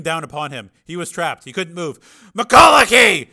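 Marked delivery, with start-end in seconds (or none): 2.4-3.3 long, high scream for help; full-force panicked yell; desperate scream. A narrator's reading. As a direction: scream the name into a mic, trapped. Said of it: "he screamed into his helmet mic".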